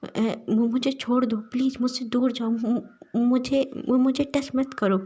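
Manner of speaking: terrified sobbing plea; crying in panic. Acted. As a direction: beg him off through tears. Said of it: "तेज़ी से रोते हुए कहता है".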